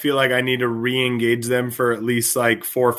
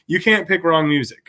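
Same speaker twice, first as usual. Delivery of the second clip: ordinary talk, nothing marked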